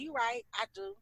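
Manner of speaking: very soft giving-in; dismissive agreement. Acted. Giving up on the conversation, softly agreeing. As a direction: concede it quietly to end things. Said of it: "If I start agreeing with everything you said".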